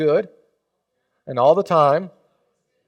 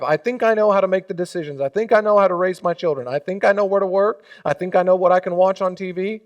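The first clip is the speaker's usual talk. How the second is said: cocky self-assurance; 3 semitones higher than usual. Acted. Voicing a rebellious believer.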